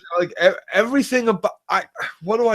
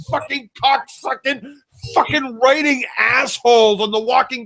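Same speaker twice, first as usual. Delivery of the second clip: angry rant. Real, not acted. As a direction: tear into the show with mocking fury. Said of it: "That was a proper rant".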